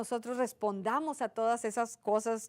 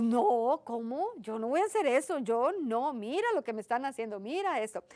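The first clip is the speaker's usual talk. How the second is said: mock inner refusal with swooping pitch; indignant protest; 2 semitones higher than usual. Churchgoer inwardly arguing against God's command to forgive, mock indignant. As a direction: play up a stubborn, put-upon objection.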